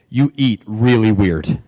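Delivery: slow, low, mildly awkward reveal; reluctant confession. Retold or imitated. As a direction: imitate a wife carefully breaking bad news. Wife reluctantly breaks awkward news.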